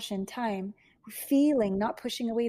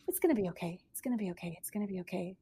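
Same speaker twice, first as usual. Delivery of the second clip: calming herself; 4 semitones lower, 7 dB quieter, faster than usual. Retold or imitated. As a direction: lower and softer, gently settling. Client calms herself down.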